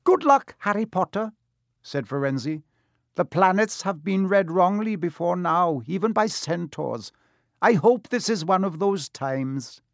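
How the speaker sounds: high, solemn centaur farewell; grave, hopeful centaur. Acted. Firenze voiced in story read.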